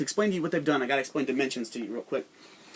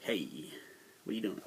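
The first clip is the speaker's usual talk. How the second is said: casual invader; 7 semitones lower, 12 dB quieter than usual. Retold or imitated. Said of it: "be like".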